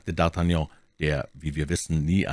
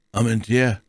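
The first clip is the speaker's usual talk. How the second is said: word read aloud, raised in pitch; 4 semitones higher, 4 dB louder than usual. A narrator's reading. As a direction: read the name out clearly. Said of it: "las Porthos".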